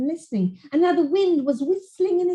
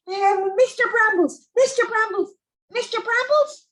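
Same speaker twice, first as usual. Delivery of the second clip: rising summons; 9 semitones higher than usual. Acted. Sarah summoning sprite, eyes closed.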